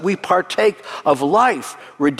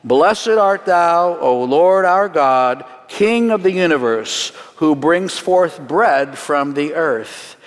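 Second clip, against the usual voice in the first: slow, solemn liturgical recitation, word by word; slow recited blessing; slower than usual. Shown as a demonstration. Rabbi leading the congregation in the blessing, slow and solemn. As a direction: lead the room through the blessing slowly. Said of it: "Together with me in English".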